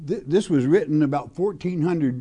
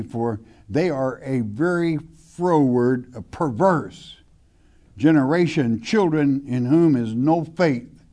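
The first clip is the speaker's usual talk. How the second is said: scripture reading; 3 dB louder than usual. Acted. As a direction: read the verse with weight, like a preacher. Reads scripture aloud from pulpit.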